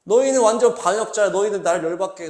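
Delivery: mildly acted scolding of the people; mock angry outburst. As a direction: Moses losing his temper at the people. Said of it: "이러면서 화내면서".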